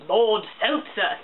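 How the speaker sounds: mock British title; British accent. Podcaster repeating the character's silly title, light British accent. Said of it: "I just gave him a British accent".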